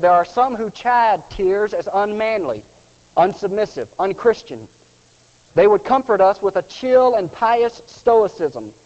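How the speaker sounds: reading the quote with rising pulpit force; preaching a quoted text. Acted. Preacher reads Meyer's words to mourners, building to a proclamation. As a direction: deliver the old sermon text as a proclamation.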